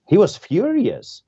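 preacher's outburst on "furious"; forceful emphasis. Real, not acted. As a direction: punch "furious" with rising heat. Emphasizing Jesus's anger.

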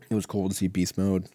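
coughing, choked-up throat; choking on a drink. Real, not acted. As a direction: talk through a choke. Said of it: "Sorry, I'm fucking choking over here".

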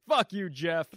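loud, irritated cursing; mad. Real, not acted. Host cursing Jeff over his redneck jokes, mad. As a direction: curse the comic out loudly. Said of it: "I'm mad now".

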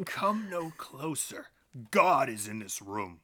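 lightly voiced menacing cult leader; villain voice. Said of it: "He kicked the fucking head".

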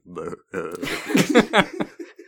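wordless mock shiver; a silly noise standing in for Alaska; imitated Alaska noise. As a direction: imitate Alaska without words. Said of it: "Alaska's more like".

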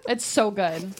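laughing fit, high and fast; cracking up while eating. Real, not acted. Laughing while tasting the lemon.

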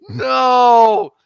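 loud, high mock scream of protest; hammed-up agonized wail; tormented movie patient. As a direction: cry out like a strapped-down victim. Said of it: "had poor Ian McDowell strapped in the".

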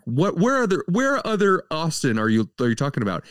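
high, mock-incredulous question. Reviewer mocking the dialogue, high and incredulous. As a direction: pretend to be baffled. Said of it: "And like".

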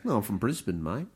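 bad Australian accent. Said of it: "Terrible Australian accent".

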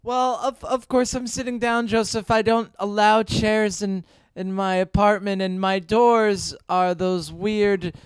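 lightly put-on Japanese accent; mother in a wobbly Japanese accent; mock Japanese mother. Mock mom rambles to son on phone, vague Japanese accent. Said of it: "I'm the Japanese part of your family".

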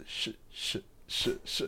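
whispered, repeated "Sh-" sounds, never reaching the word; acted stutter. First guy asked where he's from, stuttering on a soft "Sh-". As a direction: get stuck on "Sh-", each try separate and hushed. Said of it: "Why are all these guys stuttering".

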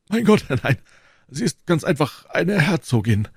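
high-pitched, self-important denial; boastful Porthos. Acted. (selbstgefällig, mit hoher Stimme)

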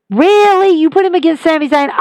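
as if you can't believe what you heard; incredulous. Real, not acted. Vlogger questioning the booking, high and incredulous.

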